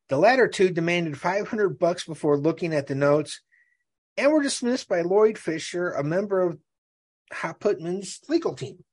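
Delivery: measured trial narration; article read-aloud. Real, not acted. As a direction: read the evidence out from the page.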